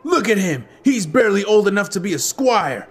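mock the little one, amused; laughing jeer. A narrator's reading. Eldest boy belittles Link to gang, laughing. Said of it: "the eldest laughed".

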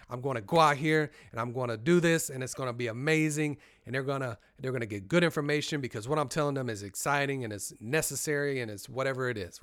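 upbeat self-motivating run-through; positive, excited. Shown as a demonstration. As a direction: talk yourself up with eager confidence. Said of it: "try to say it with a positive".

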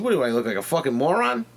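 mock-offended customer; retold argument. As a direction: act out arguing with the seller. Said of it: "as I'm arguing with this lady".

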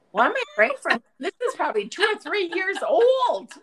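high voice breaking into laughter; amused. Real, not acted. Mom laughing at praying over an old show, amused. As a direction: rise in pitch and tip over into a laugh. Laughing at her own mistaken prayer.

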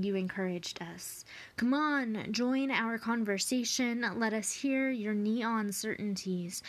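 tender, measured poetry recital; sincere reading of an ode; poem reading. Acted. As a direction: read it as a thank-you to a teacher. Reads Ode to Teachers aloud.

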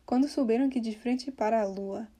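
"Quando souberam que de frente para a lua" in one smooth flow; words flowing together. Shown as a demonstration. Teacher modeling the lyric, "para a lua" merged. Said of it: "merges together".

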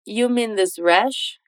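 slow question rising on "You"; slow casual form. Shown as a demonstration. Teacher models the casual version between friends slowly. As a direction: ask "You mean this rash?" slowly, rising. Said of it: "é tranquilo só dizer".

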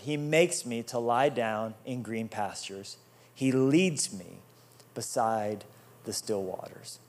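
slow, measured reading of the psalm; reading the verse to the congregation, slow and deliberate; scripture reading. Acted. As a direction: lay each phrase down gently and slowly. Reads the psalm verse aloud.

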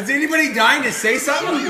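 high, loud laughing question; excited laughing. Real, not acted. Burning hot sauce round.

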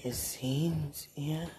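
fading sleepy whisper; drifting into sleep, barely audible; nodding off. Real, not acted. Falling asleep whisper.

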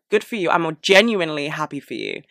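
sincere words with sarcastic ring; unintentionally sarcastic good wishes; sounding sarcastic. Retold or imitated. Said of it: "I sound sarcastic every time I say that".

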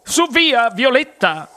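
high-voiced motherly chiding; coaxing mother. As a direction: gently rein in a daughter. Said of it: "disse sua madre".

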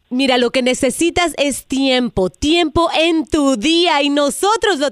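upbeat sales pitch on the phone; telemarketer voice. Acted. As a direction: sweet-talk her like a telemarketer. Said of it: "es una broma telefónica".

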